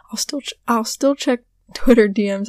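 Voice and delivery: hoarse, fading voice; voice giving out. Real, not acted. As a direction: voice cracking and dropping away. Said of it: "my voice is giving out".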